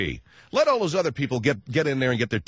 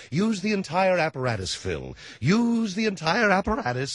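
higher-pitched impression of the therapist; speech therapist; 7 semitones higher than usual. Speech therapist telling his pupil how to talk, mock instructing. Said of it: "my, uh, speech therapist".

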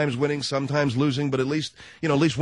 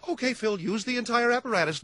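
much higher put-on therapist voice; Doctor Neffler; 11 semitones higher than usual. Therapist greeting his pupil for a lesson, mock instructing. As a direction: instruct in a high mock-coaching voice. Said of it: "I'm here for my lesson".

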